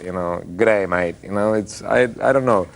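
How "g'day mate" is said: quick Aussie greeting; Australian accent. Shown as a demonstration. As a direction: toss out an Aussie catchphrase. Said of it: "it's more like".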